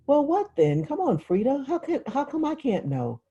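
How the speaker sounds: put-on high, pleading girl's demand; impatient little girl. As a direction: beg to be let in on it. Claudia demanding to know.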